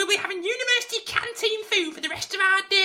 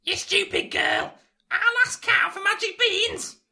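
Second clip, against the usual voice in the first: wicked stepmother. Acted. Mother scolds Meg.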